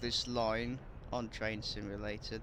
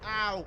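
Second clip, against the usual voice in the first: pained ow; 5 semitones higher than usual. Real, not acted. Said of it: "I burnt my mouth".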